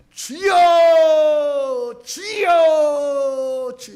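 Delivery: put-on the old half prayer shouted as a long wail. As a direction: cry out to God at full voice, long and wailing. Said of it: "우리는 그동안 기도를 할 때".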